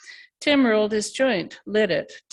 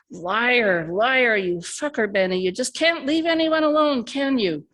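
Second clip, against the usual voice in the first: raised, higher furious bellow; 4 semitones higher than usual. Acted. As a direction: roar it back at him. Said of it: "bellowed Tim".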